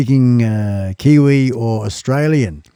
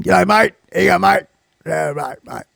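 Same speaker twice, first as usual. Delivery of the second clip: higher-pitched mock Aussie greeting; Australian accent; 3 semitones higher, 3 dB quieter than usual. Shown as a demonstration. Contrasting Australian with Kiwi, exaggerated Australian accent. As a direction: put on a broad Australian accent. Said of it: "that's how you talk Kiwi and Australian".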